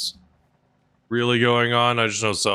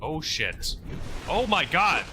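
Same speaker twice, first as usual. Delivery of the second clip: terrified gibbering; 11 semitones higher than usual. Real, not acted. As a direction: freak out, voice climbing high. Panicking as a monster attacks.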